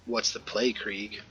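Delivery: cold, flat, quiet delivery; ice-cold monotone; frosty monotone. Acted. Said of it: "Her voice comes out in a frosty monotone".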